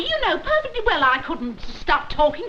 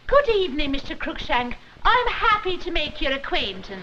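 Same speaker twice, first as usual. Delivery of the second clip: put-on Scottish accent with Irish slips. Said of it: "a little bit of Ireland got into your burr".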